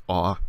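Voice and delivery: O said as "ah", as in ostrich; short O sound. Shown as a demonstration. Teacher breaking down the word omicron, O as short "ah". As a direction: say O as a short open "ah", not "oh". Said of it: "always a short O sound".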